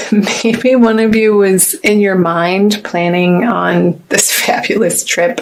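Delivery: amused, laughing while talking; sambil tertawa. Real, not acted. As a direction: let small laughs break into the words. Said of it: "Sorry, I'm laughing".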